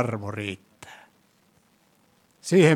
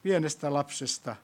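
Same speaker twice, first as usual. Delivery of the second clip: prayer. Acted. Leads closing prayer.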